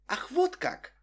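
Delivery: high indignant "ах, вот как". Acted. Girl answering her angry friend, indignant.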